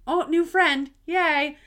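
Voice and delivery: a playful imitation of her own delight; retold excitement. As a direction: replay the happy rush of a new friend. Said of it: "I got really excited thinking".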